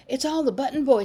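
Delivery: put-on girl eagerly blaming the boys to grandfather. A narrator's reading. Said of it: "said Nancy eagerly".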